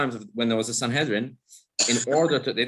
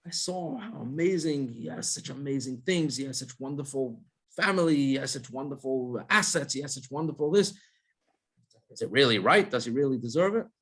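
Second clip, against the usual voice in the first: a hint of a jealous neighbour murmuring about him; envious gossip; 3 semitones higher than usual. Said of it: "they go and talk to their friend and they say".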